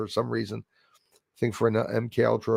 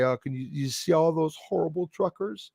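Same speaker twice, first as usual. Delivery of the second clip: mocking neighbor; 4 semitones higher, 3 dB quieter than usual. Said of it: "I even heard one of the neighbors say".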